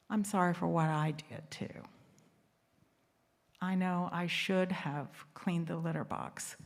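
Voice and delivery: low, softened returned apology; sincere apology. Retold or imitated. Husband apologizing back for the litter box, sincere. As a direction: give the apology back gently, pitched low.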